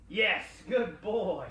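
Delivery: slow, sing-song praise for the dog; drawn-out praise. Real, not acted. Trainer praising the dog, slow and upbeat. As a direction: stretch it out, rewarding the pup.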